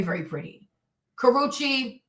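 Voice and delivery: normal talking voice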